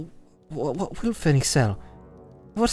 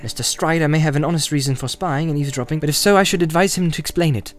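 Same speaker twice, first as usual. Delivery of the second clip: higher, indignant retort; angry; 5 semitones higher, 4 dB louder than usual. A narrator's reading. Frodo challenging Strider over spying and eavesdropping, angry. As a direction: throw it back at him, pitch raised. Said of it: "said Frodo angrily".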